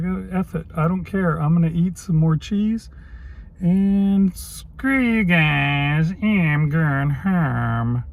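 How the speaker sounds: a light, lazy Eric Cartman whine, slow on the last words; half-hearted cartoon brat giving up; Cartman impression. Vlogger voicing his own giving-up thoughts, as lightly done Cartman. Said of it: "that's my Cartman, uh, impression".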